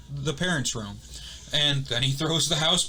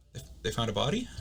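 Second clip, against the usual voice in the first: hushed, low, stammered question; losing his cool; 4 semitones lower, 6 dB quieter, faster than usual. Retold or imitated. Neighbor questioning the reporter, cool gone. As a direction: retell it as a stunned man's quiet question. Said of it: "All of his cool was gone".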